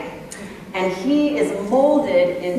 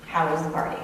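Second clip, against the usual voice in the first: softer, lower, carefully neutral parent; reasonable question; 4 semitones lower, 5 dB quieter, faster than usual. Acted. Parent to son in the car, carefully reasonable. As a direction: ask it mildly, holding back irritation. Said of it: "you ask an entirely reasonable question".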